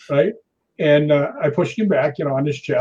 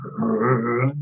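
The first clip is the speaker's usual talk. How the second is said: imitated growl; 4 semitones lower, 3 dB quieter than usual. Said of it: "and he's just going".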